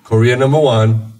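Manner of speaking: mock patriotic driver; imitating insistent driver. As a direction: insist on the ranking like a proud local. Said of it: "the guy was like".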